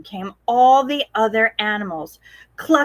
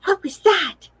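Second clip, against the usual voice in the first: higher, nervous question; a little spooked; worried question; 8 semitones higher than usual. Acted. Posy hearing a ghostly noise, nervous and high.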